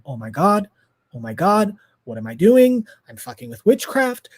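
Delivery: acted-out mounting alarm; retold panic. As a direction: start contained, climb toward panic. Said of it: "I start panicking".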